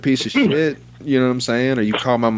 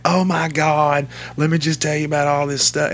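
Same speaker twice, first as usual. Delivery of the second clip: chatty coworker voice; 4 semitones higher than usual. Retold or imitated.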